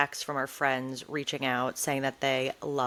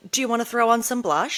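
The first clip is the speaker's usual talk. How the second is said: imitating mom; 6 semitones higher, 3 dB louder, faster than usual. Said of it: "so my mom, always like".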